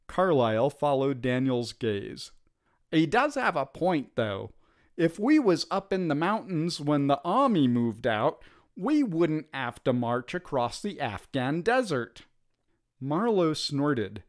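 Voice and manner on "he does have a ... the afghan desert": lightly voiced rough private; a hint of a working-class soldier; common soldier voice.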